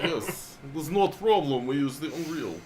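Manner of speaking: bad Eastern European accent; laughing, joking Eastern European accent. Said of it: "my terrible Eastern European accent".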